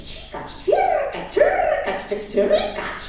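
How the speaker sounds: high, slow chirping; high birdlike chirrup; practising chirps. Acted. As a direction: stretch out the chirps like a bird practising. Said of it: "zaczął ćwiczyć".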